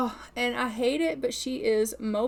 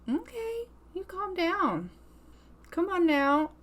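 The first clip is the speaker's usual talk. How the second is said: mock scolding; 7 semitones higher than usual. Real, not acted. Teasing her sassy Sim.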